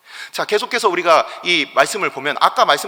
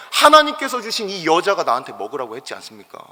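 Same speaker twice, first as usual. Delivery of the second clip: aggrieved protest; 4 dB louder than usual. Retold or imitated. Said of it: "하나님에 대해서 화를 내고".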